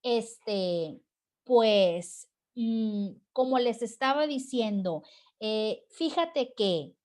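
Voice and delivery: stalling for words with drawn-out fillers; muletillas dubitativas. Shown as a demonstration. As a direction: hesitate as if the idea slipped away. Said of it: "ya no sabes ni qué decir". (titubeo fingido para mantener la conversación)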